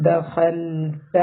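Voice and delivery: "ദഖൽത" slowly, with a full, heavy kh; weight the kh in "ദഖൽത"; heavy kha. Shown as a demonstration. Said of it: "ഹ heavy ലെറ്ററാണ്".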